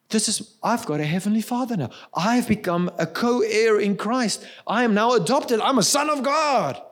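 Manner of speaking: lightly voiced small boy, rising in pitch toward the end. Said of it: "I said it in a much higher voice".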